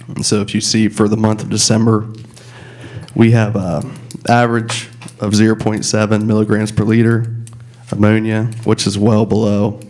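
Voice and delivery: hoarse from a cold. Real, not acted. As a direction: speak with a slightly hoarse voice. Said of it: "so my voice is a little hoarse".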